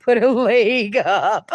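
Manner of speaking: slow, breaking into laughter; laughing while reading. Real, not acted. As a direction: read it through a laugh. Reading funny chat comment.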